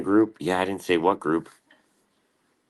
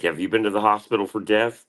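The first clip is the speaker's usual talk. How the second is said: higher mock mom voice, rising at the end; imitating mom; 6 semitones higher than usual. Mom asking his friends about hospital, mock high voice. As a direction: mom grilling again, pitched up. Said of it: "She's like".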